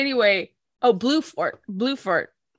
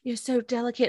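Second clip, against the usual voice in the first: mock gallant hero; 10 dB quieter than usual. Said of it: "He's like".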